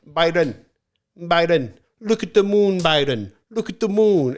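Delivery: retold calling out. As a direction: call out like a drunk trying to distract someone. Drunk stranger distracting him, retold.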